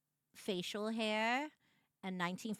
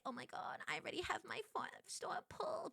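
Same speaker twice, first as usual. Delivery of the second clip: hushed reaction; 8 semitones higher, 8 dB quieter than usual. Retold or imitated. Acts own reaction, hushed.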